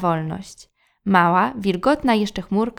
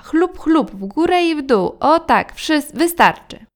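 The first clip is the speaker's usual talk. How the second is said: higher, louder, bossy cheerful washing commands; lively commentary; 7 semitones higher, 6 dB louder than usual. Acted. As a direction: chant it out like mom directing the rinse. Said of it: "komentowała mama".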